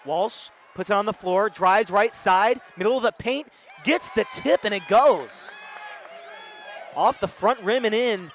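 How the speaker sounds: energetic basketball commentary, rising to excited calls; live play-by-play. Real, not acted. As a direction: call the game live, surging on the big shot.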